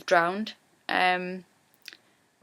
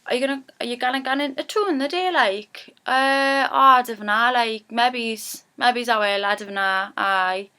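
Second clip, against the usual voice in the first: Geordie chat; 3 semitones higher than usual. Shown as a demonstration. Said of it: "we say".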